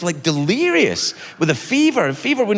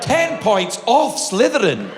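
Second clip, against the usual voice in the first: slow, declamatory mock penalty; stern schoolteacher; 3 semitones higher, slower than usual. Doctor to patient, mock schoolmistress verdict. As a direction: pronounce judgement slowly like a strict professor.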